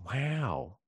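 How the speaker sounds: dry, unimpressed wow; sarcastic wow. Retold or imitated. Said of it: "that's the only sarcastic wow".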